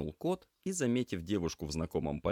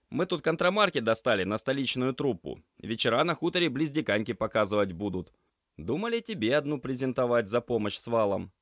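put-on higher, louder young man, easy and friendly; Semyon, calm offer; 7 semitones higher, 6 dB louder than usual. Semyon offers the gloomy class head a theatre ticket, friendly. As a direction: offer the tickets like a casual favour.

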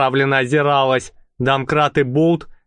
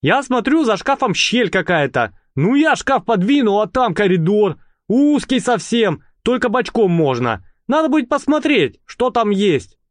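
higher, eager rattling chatter; lightly voiced lad gabbling away; 7 semitones higher than usual. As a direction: rattle on like an excited kid. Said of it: "затараторил Болт".

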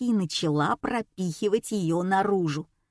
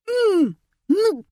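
a furious man's strained, much higher yell; raging grunt; 11 semitones higher, 5 dB louder than usual. A narrator's reading. Грубый француз злится на автомат, яростный выкрик. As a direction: shove the sound out in fury. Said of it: "бесился мужчина".

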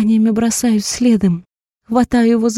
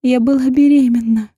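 tearful confession; 5 semitones higher, 4 dB louder than usual. A narrator's reading.

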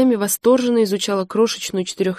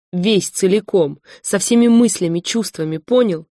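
upset outburst; 4 dB louder than usual. Acted. Lesya bursts out at Igor.

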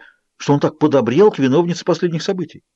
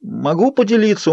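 pleading; 9 semitones higher than usual. A narrator's reading. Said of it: "умоляющим голосом проговорил Джейкоб".

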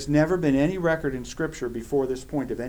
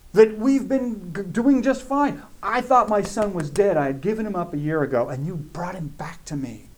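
anguished accusation; 4 semitones higher than usual. Acted. Widow accusing Elijah, sermon retelling.

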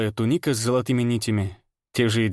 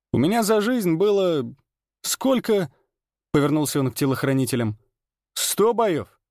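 high, bragging arena star; swaggering showman; 6 semitones higher than usual. Acted. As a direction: boast grandly to the crowd. Ranner voiced throughout scene.

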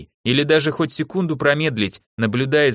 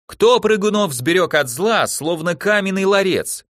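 shouting at the top of her lungs; 7 semitones higher than usual. Acted. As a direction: belt out the stadium chant. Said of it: "Лана кричала во всю глотку".

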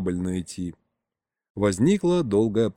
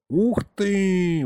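высокое восхищённое «ух ты»; ахни от восторга, голос вверх; восхищённо; 8 semitones higher than usual. Acted. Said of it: "восхитился Гришка". (Гришка восхищается рассказом деда: восхищённое «ух ты»)

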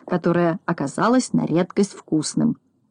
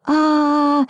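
протяжное высокое «а-а-а»; изобрази крик, не слишком громко; крик страшным голосом; 9 semitones higher than usual. A narrator's reading. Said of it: "страшным голосом закричал Незнайка". (протяжный вскрик)

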